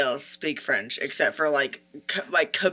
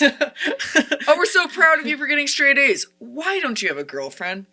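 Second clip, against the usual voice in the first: higher, sugary praise then a pointed question; religious parents; 7 semitones higher than usual. Retold or imitated. Parents praising their kid's grades then asking about a girlfriend, mock sugary tone. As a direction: praise sweetly, then needle. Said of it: "religious parents".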